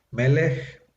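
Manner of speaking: Melech, stressed on the next-to-last syllable; stress on first syllable. Shown as a demonstration. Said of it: "acento en la penúltima sílaba".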